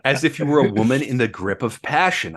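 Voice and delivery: reading on through a laugh; amused laugh breaking into the words. Real, not acted. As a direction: chuckle while reading the line. Mock-sorry aside while reading quote.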